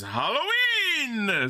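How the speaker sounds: slow, high eerie drawn-out wail; a hint of ghostly wail; spooky voice. Shown as a demonstration. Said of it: "I'm gonna do a spooky voice".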